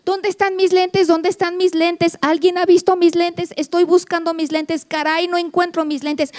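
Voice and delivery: a mother muttering as she searches for her glasses; mom hunting for glasses. Retold or imitated. Mother acting out a search for her lost glasses, mildly flustered.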